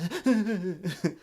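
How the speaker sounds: stuttering chest huffs, mimicked; mock leftover sobs in quick huffs; imitated after-cry. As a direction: huff it out like a child after crying. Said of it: "you know the cry".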